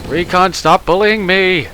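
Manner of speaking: high, loud, slow playful protest; mock whiny shout. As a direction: wail it like the bullied little guy. Mock complaint to teammate.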